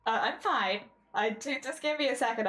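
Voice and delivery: talking through a nosebleed; flustered, nose bleeding mid-stream. Real, not acted. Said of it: "I'm having a nosebleed".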